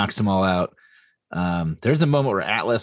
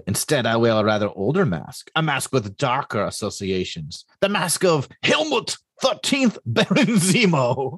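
villain voice; 4 semitones higher than usual. Acted. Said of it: "Oh, I love your villain voice".

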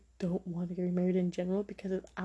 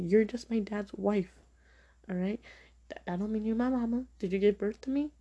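retold telling-off; 3 dB louder than usual. Retelling telling off her stepmom.

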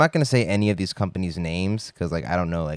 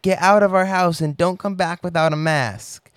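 put-on high child voice ordering him out; angry little kid; 10 semitones higher, 5 dB louder than usual. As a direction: mimic a toddler laying down the law. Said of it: "and she was like".

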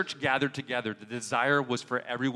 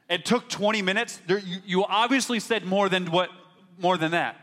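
exasperated; 5 semitones higher, 4 dB louder than usual. Retold or imitated. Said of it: "I'd look at Nathan".

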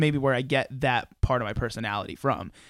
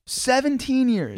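surprised; 11 semitones higher, 4 dB louder, slower than usual. Real, not acted. Surprised at the age gap.

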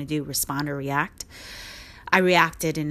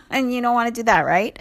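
higher-pitched, through a real laugh; 5 semitones higher, faster than usual. Real, not acted. Warning listeners off letting the horse lead, laughing. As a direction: laugh your way through the words.

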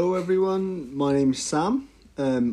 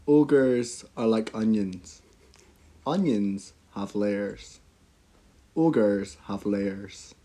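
slow, drawn-out Shrek voice; 3 semitones lower, much slower than usual. Pretend. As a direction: channel Shrek, deliberate and slow. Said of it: "channel my inner Shrek".

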